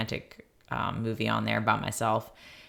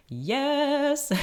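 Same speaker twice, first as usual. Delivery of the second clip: high, thrilled little yes; excited yes. Retold or imitated. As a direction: squeal it with delight. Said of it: "and I'm just like".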